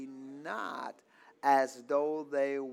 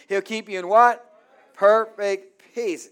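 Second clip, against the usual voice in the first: louder preaching call, "what" pushed up; 5 semitones higher, 13 dB louder than usual. Shown as a demonstration. Preacher pushing the congregation to answer louder, loud call. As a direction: belt it out so they answer back. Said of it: "Come on, say it like you mean it".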